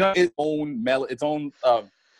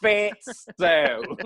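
computer-voice taunt; 6 semitones higher, much slower than usual. Acted. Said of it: "still talking shit".

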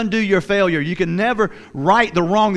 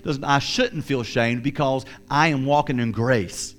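a softer, lower confession of faith; quiet prayer; 4 semitones lower than usual. Shown as a demonstration. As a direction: pray it quietly, sincere. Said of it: "So you have to say".

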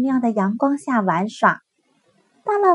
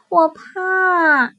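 slow, high, timid cub voice; a frightened little cub admitting it; scared little bear; 7 semitones higher, 6 dB louder than usual. Acted. Little bear answers big bear.

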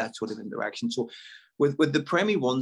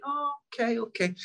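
non-judging reply; 12 semitones higher, 3 dB quieter than usual. Retold or imitated. Acts out non-judging reply to children.

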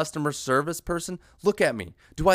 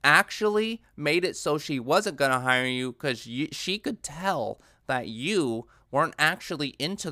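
mock critic. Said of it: "I know people go".

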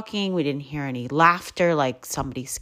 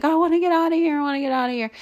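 high, frightened pleading, much higher than her own voice; scared child; 11 semitones higher, much faster than usual. Retold or imitated. Mom voices scared Anna wanting out of the woods, high frightened plea. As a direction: voice the panicked kid begging to leave. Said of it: "Anna just starts crying".

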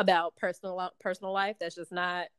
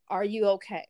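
mild, measured, sincere check-in; sincere concern. Retold or imitated. Director checking on the actress, sincere concern. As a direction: ask with real care, imitating the director. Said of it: "Like, sincerely".

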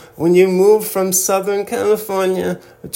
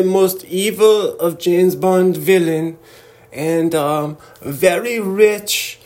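Swiss guy impression. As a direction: play a polished Swiss Bond-villain type. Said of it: "my Swiss guy impression is on point".

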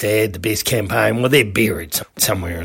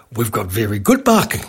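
lightly imitated Indian accent; a hint of mock Indian accent; 3 semitones lower than usual. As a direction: slip into the Indian owner's accent. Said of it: "He was an Indian fella".

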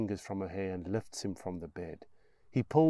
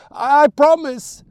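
put-on high, loud, slow boy's promise; terrified child's scream; 20 dB louder, slower than usual. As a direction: scream it out in fear. Boy screams promise in fear.

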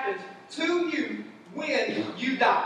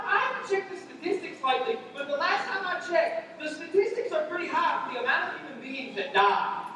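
higher, dry mock-serious; preacher joking about death rates; deadpan joke; 5 semitones higher than usual. Shown as a demonstration. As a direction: state the obvious like a statistic. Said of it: "dry joke".

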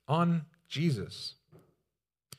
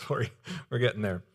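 laughing apology; 3 semitones lower, 4 dB quieter, much faster than usual. Real, not acted. Laughs at own delay.

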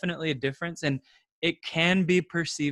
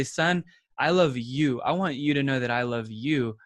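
tender dad reply. Retold or imitated. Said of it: "I say".

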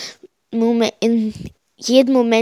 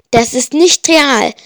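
gerufen; 2 semitones higher, 4 dB louder than usual. Acted. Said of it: "rief ich".

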